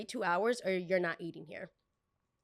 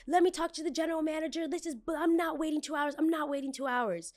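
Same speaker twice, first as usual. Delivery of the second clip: mock entitled demand; 9 semitones higher than usual. Entitled guest demanding manager.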